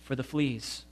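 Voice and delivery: soft and calm, simply at peace; serene. A narrator's reading. Betsy giving thanks for the fleas, serene and soft. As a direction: say it as if fleas were a gift. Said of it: "Betsy went on serenely".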